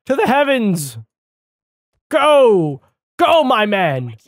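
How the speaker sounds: high, loud grand cheer; mock heroic send-off. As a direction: launch him skyward with fanfare. Launching buddy upward.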